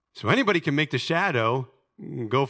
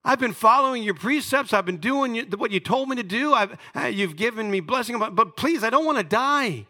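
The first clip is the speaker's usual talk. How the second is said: acted plea to God, higher, lightly voiced; pleading cry; 5 semitones higher than usual. Dying king begging God for life, mild pleading. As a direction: beg for your life, not sobbing. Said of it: "He cries out to the Lord saying".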